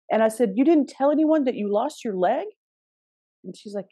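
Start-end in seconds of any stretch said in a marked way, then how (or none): 0.6-2.5 disbelief climbing to the last word; retold stunned disbelief; incredulous question. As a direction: act out astonished questioning, rising at the end. Acted disbelieving question in retold conversation.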